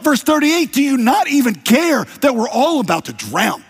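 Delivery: high, loud panicked cry; frantic disciples yelling over the storm; panicked shout. Acted. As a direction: shout it like terrified fishermen in a storm. Panicked disciples waking Jesus.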